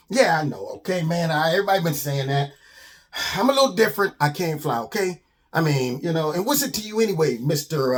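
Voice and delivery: put-on quick, touchy young bird; Simon the defensive bird. Little bird tells the skunk he can't fly, defensive. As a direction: brush off the question defensively.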